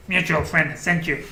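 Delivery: lightly voiced goblin; a hint of a scheming goblin. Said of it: "Sorry, goblin voice".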